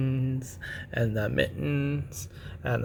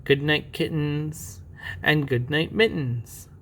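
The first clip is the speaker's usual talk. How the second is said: slow, fully voiced bedtime reading; storybook goodnight; 2 semitones higher, slower than usual. Reader saying good night to kittens and mittens, storybook voice. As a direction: read it out slowly and clearly.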